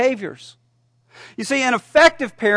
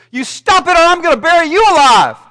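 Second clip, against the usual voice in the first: high, loud, rushed threat; 8 semitones higher, 8 dB louder, faster than usual. Acted. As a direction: yell the threat fast. Therapist threatens patient.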